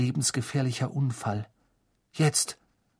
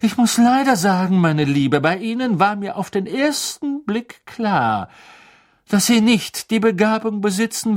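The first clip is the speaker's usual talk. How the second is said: higher, louder, icy disdain; barely hidden anger; 9 semitones higher, 5 dB louder than usual. A narrator's reading. Trelawney scolding Hermine with open anger, icy and loud. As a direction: put the pupil down coldly. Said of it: "musterte Hermine mit unverhohlenem Zorn".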